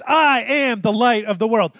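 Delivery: high, loud declaration of I am; proclaimed quote. Acted. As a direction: boom it out as a proclamation. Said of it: "Jesus says".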